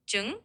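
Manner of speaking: Trứng with a soft tr and a rising end; Vietnamese word. Shown as a demonstration. AI tutor modelling the word for egg, rising. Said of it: "soft tr sound at the start".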